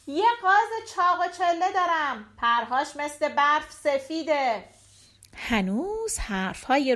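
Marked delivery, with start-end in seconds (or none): 0.1-4.6 high-pitched call that eases off; mild market cry. Acted. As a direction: hawk the goose without really yelling. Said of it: "روبین بازم فریاد زد".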